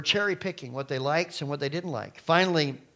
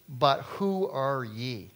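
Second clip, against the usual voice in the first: demon's challenge; much slower than usual. Acted.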